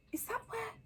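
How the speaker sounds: high, soft hushed question; softly awed stern witch; whispered. A narrator's reading. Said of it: "whispered Professor McGonagall".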